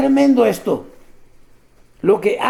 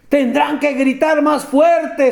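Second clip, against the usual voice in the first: mocking taunt; 4 semitones higher than usual. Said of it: "se mofaba".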